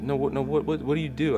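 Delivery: eager nurse. Retold or imitated. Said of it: "she says".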